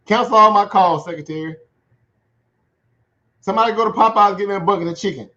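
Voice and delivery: hammed-up Trump tantrum ordering family out; angry Trump. Sulking president barks orders at his family, mock angry. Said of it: "mad at Melania, like".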